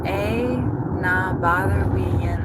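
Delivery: put-on tentative, amateur Scottish accent; attempted Scottish accent. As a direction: try out a Scottish accent you barely know. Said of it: "do a Scottish accent".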